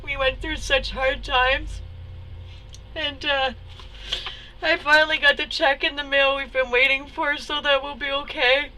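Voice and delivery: pushing the words out through welling emotion; choked up. Real, not acted. Sharing answered prayers after hard times, choked up. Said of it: "Let me all choked up".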